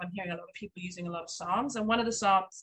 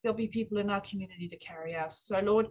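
spoken prayer. Acted. Pastor's wife praying for the church's giving and new home, earnest. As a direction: pray it sincerely to the Lord, unhurried.

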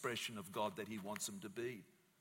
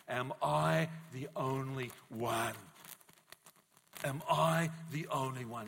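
crying out. Acted. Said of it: "and he's crying out saying".

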